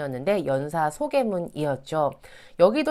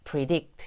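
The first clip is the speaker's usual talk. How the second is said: "predict" stressed on its last syllable; stress on DICT; 3 semitones lower than usual. Shown as a demonstration. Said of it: "뒤로 주셔야 됩니다".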